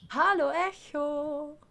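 cave echo. Pretend. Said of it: "schreit nach Echo".

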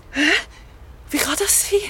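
frightened sob. Acted. Zoe discovers she is covered in earth, frightened. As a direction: choke it out in dread.

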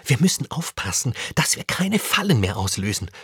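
ordinary delivery

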